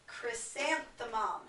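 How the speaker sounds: said slowly and clearly for the class to copy; teacher's slow demo word; slow model word. Shown as a demonstration. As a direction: stretch out Chrysanthemum syllable by syllable. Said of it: "I'll say it first".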